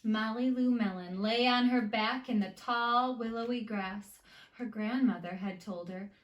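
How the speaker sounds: put-on lively read-aloud to children; story narration. A narrator's reading. Teacher reading a picture book to her students, lively storytime.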